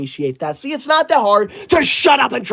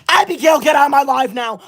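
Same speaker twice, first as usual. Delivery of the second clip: angry shout; 3 semitones higher than usual. Real, not acted. Streamer yelling at a rude commenter to leave, angry. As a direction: yell her out of the stream.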